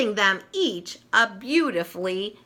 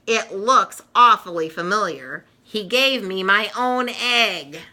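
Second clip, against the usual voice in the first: scoffing; 3 dB louder than usual. Acted. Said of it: "Lucy scoffs".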